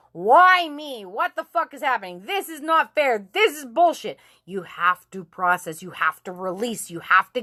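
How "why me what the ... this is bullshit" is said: higher-pitched acted rant of protest; mock furious complaint; getting ugly. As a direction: vent at God in aggrieved bursts. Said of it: "I'm really gonna get ugly".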